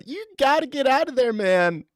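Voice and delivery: high, loud mock Joe Rogan shout; Joe Rogan impression. Joe Rogan warning South Africans, high mock yell. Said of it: "This is Joe Rogan in a helicopter".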